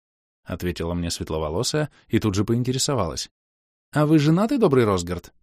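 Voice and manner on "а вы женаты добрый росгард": flirty. Acted.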